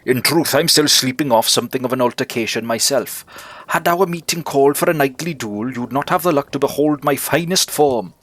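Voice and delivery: lightly voiced, courtly knight; a touch of grand knightly boasting; gallant bug knight. Knight character keeps talking.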